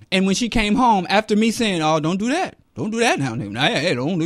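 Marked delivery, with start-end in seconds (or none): 1.8-4.2 lightly hammed-up fussing old man; old black man. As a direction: imitate an old man fretting out a warning. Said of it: "I'm the old black man".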